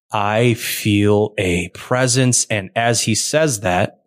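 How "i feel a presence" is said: illithid voice. Acted. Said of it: "the illithid creature goes".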